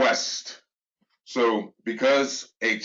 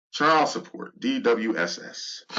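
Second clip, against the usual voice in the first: sniffling with a cold; slower than usual. Real, not acted. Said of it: "Excuse the sniffling and sneezing".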